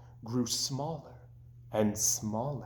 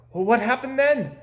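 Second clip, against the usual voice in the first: high, keen and louder; eager question; 9 semitones higher, 7 dB louder than usual. A narrator's reading. Toad begging Frog to finish the story, eager. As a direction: lean in, dying to know.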